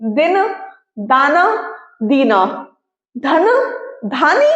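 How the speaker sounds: दिन, दाना, दीना, धन, धानी said one by one with pauses; sounding out words. Shown as a demonstration. Teacher reads example words aloud one by one. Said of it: "बोलने में एक जैसी लगनी चाहिए".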